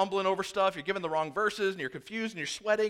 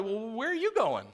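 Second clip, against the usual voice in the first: higher, pleading, mock-panicked voices; frightened followers crying out, higher and louder; panicked disciples; 7 semitones higher, 5 dB louder than usual. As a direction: play the disciples begging him not to leave. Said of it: "you gotta wonder if they're looking at each other".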